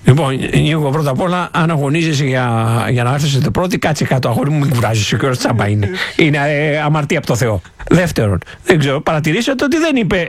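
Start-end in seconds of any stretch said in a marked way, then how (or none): 0.0-8.4 lower, patronising comfort; mock consoling. Comedian patronisingly telling Nikos to sit down, lower mock comfort. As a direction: pat him on the head, condescending.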